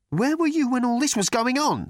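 high-pitched challenge; indignant demand. A narrator's reading. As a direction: demand an explanation. Arthur challenges Thor.

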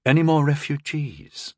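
mildly impatient demand. A narrator's reading. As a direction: press for an answer. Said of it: "Rondal demanded".

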